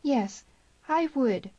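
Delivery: high, impulsive outburst; exclaiming. A narrator's reading. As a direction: let it burst out. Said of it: "she exclaimed".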